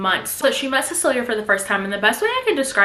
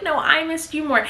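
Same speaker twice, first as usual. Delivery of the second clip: high, sickly-sweet one-upping; mock lovey-dovey; 6 semitones higher than usual. Husband out-gushing his wife, mock lovey-dovey. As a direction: gush it like a besotted husband, acted. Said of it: "that nauseating love".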